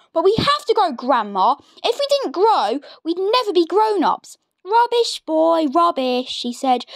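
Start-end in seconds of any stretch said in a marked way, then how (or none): 0.1-4.4 put-on lightly raised boyish voice; a polite little boy, voiced lightly; young George. George pleads. 4.6-6.3 put-on higher scoffing old woman; scornful Grandma. Grandma dismisses him.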